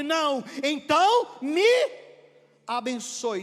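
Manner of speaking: loud, high, drawn-out demand; shouted insistence. Acted. Jacob demanding a blessing mid-struggle, shouted insistence. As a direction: hang on and insist at full voice.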